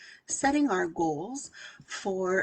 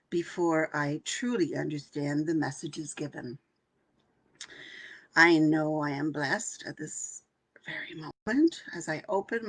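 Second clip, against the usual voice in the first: guided meditation affirmations. Acted. Coach leading her workshop group in meditation, hushed.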